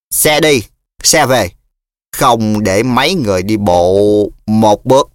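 slurred tipsy bragging; drunken slur. Acted. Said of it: "giọng lè nhè".

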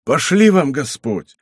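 high, effusive blessing; acted exclamations, pitched well up; exclaiming. A narrator's reading. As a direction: gush thanks to a benefactor. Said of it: "стал восклицать Мацко".

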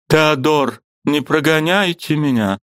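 высокий умоляющий женский голос; умоляй, не отпускай его; мольба жены. A narrator's reading. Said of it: "голос её как ножом резанул его по сердцу". (высоким голосом, с мольбой)

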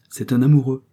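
light, smiling tease; said with a smile. A narrator's reading. Marguerite teasing her friend, smiling. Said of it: "dit Marguerite en souriant".

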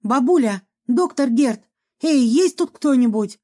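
a mild narrated shout into the rooms; calling out. Acted. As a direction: call through the empty flat. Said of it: "крикнула".

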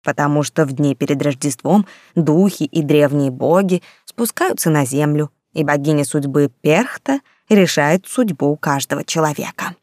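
lightly spooky storyteller tone; a hint of a sinister tale-teller; ominous voice. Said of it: "зловещим голосом произнесла повариха".

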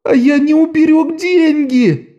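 очень высоко и медленно, на одной ноте; воет от мнимого отчаяния; протяжный вой. A narrator's reading. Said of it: "провыл Лок". (протяжный вой отчаяния)

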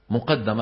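مقدم with a doubled, stressed د: muqaddam; pronunciation demo. Shown as a demonstration. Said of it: "لاحظتوا كيف كلمة مقدم؟". (مقدم بتشديد الدال بوضوح)

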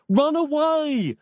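high, slow drawn-out yell; urgent cry to flee; desperate yell. A narrator's reading. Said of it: "Nick yelled out in vain".

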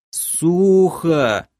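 high creature whine; plaintive complaint. A narrator's reading. Captive creature moaning about dry ground, plaintive whine. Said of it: "пожаловался тот же голос".

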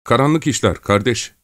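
high, frightened murmur; fearful, quavering reply; trembling voice. A narrator's reading. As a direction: answer timidly, voice trembling. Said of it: "Gavrila titrek bir sesle".

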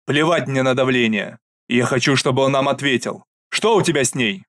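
loud insistent demand; angry demand. Acted. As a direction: refuse to back down. Father demands answer. (гневное требование)

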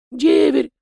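high, loud exclamation; loud correction. A narrator's reading. House spirit loudly correcting the master's word. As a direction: blurt out the correction.

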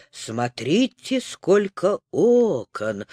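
low, slow voice of wonder; с восторгом. Acted. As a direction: gaze up in delight, slowly. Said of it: "с восторгом сказал Макс". (низким голосом, с восторгом)

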